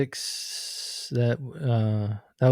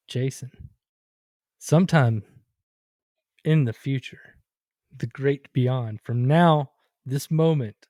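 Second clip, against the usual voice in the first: psychic voice. Pretend. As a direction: intone it like a mystic seer. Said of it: "that's my psychic voice".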